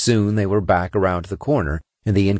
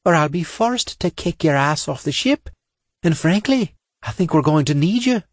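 higher, brisk commanding officer; commander voice; 9 semitones higher than usual. A narrator's reading. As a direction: tough squad leader giving orders. Female commander voiced by narrator.

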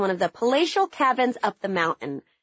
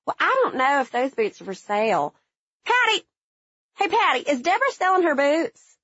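Southern twang; 4 semitones higher than usual. Retold or imitated. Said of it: "her twang in full force".

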